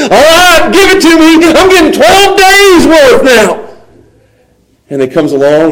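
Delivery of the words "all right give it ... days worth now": high, eager, drawn-out finish; eagerly expecting. Acted. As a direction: crow about the payout you expect. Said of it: "and they're thinking".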